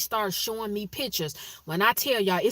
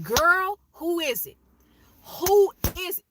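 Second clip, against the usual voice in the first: excited teasing; 9 semitones higher, 5 dB louder than usual. Retold or imitated. Teasing friend about her glow.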